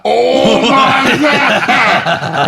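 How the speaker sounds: high, loud, drawn way out, laughing; stunned squeal. Retold or imitated. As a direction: gasp it out, totally starstruck. Retelling seeing Oprah on screen.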